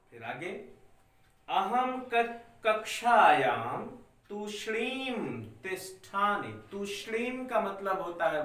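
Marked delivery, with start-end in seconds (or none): 1.5-6.5 slow, spaced-out reading for the class to follow; slow dictation. Shown as a demonstration. Teacher dictating Sanskrit lines to students, slow and clear. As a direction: spell it out slowly so children can write along. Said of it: "मैं धीरे धीरे बोल रहा हूं बच्चों".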